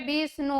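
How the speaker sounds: বিষ্ণু sounded out for students; pronunciation demo. Shown as a demonstration. Teacher asks how we pronounce Bishnu, demonstrating. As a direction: pronounce বিষ্ণু clearly, showing the ষ and ণ. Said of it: "আমরা উচ্চারণ করছি কিভাবে".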